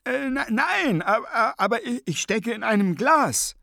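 very high, spluttering character voice; exasperated stammering protest. A narrator's reading. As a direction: insist helplessly, tripping over words.

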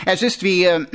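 halting, with ähs and a throat-clear; hesitant. Acted. Sergeant awkwardly explaining age to his corporal, hesitant. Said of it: "Er sah Nobby an und zögerte".

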